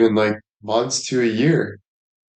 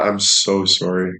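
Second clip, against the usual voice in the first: ordinary delivery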